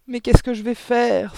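high, loud, helpless cry; wailing lament. A narrator's reading. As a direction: lament in a panic. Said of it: "se lamenta le père". (lamentation aiguë et désemparée)

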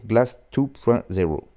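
title attempted in an English accent; English pronunciation. Shown as a demonstration. Radio host trying the album title, with an English accent. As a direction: say the album title in English. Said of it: "C'est ridicule".

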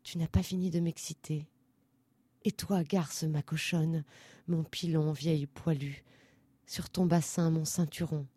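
low, soft intimate murmur; aroused dancers. A narrator's reading. Excited dancers to their partners, hushed crude endearments. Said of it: "Les danseurs s'excitaient".

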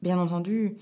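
ordinary delivery

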